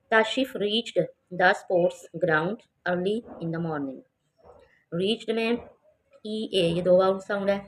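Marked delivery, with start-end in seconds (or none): 0.1-4.0 very slow, word by word; slow reading aloud. Shown as a demonstration. Teacher reading the paragraph to children, very slow. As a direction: read it carefully for the class.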